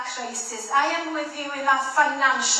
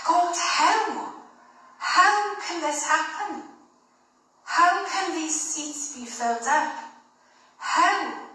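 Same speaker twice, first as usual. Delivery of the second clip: pleading to God; 5 semitones higher, slower than usual. Retold or imitated. Church member crying out to God, higher pleading. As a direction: cry out to God in bewildered pleading.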